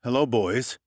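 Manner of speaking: smooth, cool menace in the greeting; detective greeting the dwarf muggers, debonair threat; threateningly debonair. Acted. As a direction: greet the muggers like a suave gangster. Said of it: "my threateningly debonair tone".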